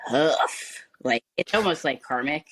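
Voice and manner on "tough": slow, whispered sigh of a line; weary whisper. Real, not acted. To Brad, admitting her son is hard, in a slow whisper. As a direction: let it out tired and hushed.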